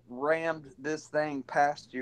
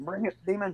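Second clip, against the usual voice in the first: put-on Scottish accent, pitched higher; 5 semitones higher than usual. Answering an attacker in character while blocking a door: Scottish accent. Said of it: "In your best Scottish accent".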